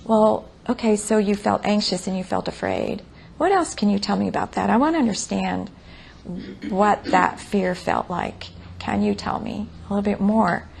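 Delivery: softly probing, unhurried counselor voice; gentle counselor. Acted. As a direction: act out gently drawing a client out. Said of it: "we're gentle".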